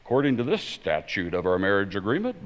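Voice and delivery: lightly voiced lawyer citing a statute; a hint of pompous courtroom argument; attorney mode. Husband argues his case to his wife, light attorney mode. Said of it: "I'll go into attorney mode".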